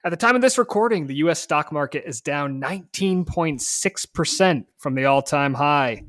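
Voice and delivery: punchy, emphatic scripted show opening; podcast host intro. Acted. Host greeting podcast listeners and introducing today's episode, punchy scripted intro. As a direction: open the show with energy, stressing key words.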